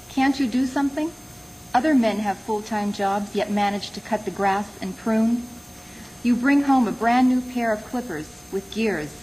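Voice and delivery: measured poem recital with pauses between phrases; poetry reading. Acted. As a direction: read it as a poem, letting each line fall. Reads own poem aloud.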